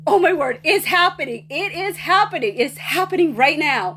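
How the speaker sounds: high-pitched mock fan squeal, not full volume; imitating a thrilled, screaming teenage fan; retold excited screaming. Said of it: "I am screaming so loud".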